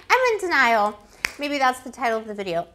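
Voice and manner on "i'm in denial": mock denial. Repeats ex line, high loud.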